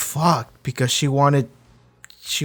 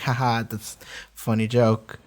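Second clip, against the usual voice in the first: amused laugh. Retold or imitated. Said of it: "I heard that and I laughed at it".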